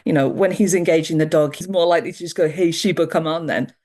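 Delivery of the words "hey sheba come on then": a hint of a man's flat voice to his dog; flat guy voice. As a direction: call the dog casually, without baby talk. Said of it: "when the guy's voice is flat".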